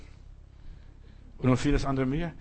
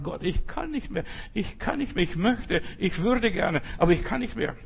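despairing prayer; 5 semitones higher than usual. Acted. Acted desperate prayer to God.

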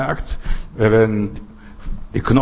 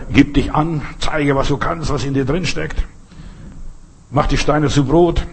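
tempting devil; 3 semitones higher than usual. Acted. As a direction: coax like the devil luring Jesus. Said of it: "so lieblich der Teufel spricht".

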